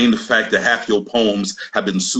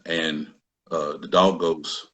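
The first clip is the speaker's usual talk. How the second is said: lower, much softer fake-sweet backpedal; mock innocent; 7 semitones lower, 4 dB quieter than usual. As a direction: shrink into a childish nursery singsong, ironic. Sarcastic retreat into nursery rhyme.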